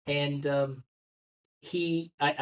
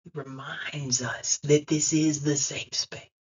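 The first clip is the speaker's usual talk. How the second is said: slow, intimate whisper; 5 semitones lower than usual. Real, not acted. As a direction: lean in and whisper the comfort. Preacher drops to a whisper.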